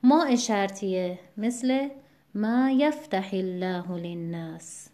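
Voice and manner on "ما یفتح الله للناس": ما یفتح الله للناس slowly, with "yaf" of یفتح stressed; ma YAF-tahillah for ما یفتح الله للناس. Shown as a demonstration. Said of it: "یفتحی نباید بخونیم".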